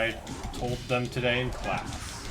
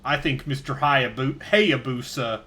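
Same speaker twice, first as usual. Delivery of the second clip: interviewee voice. Acted. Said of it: "now you're also the person they're interviewing?".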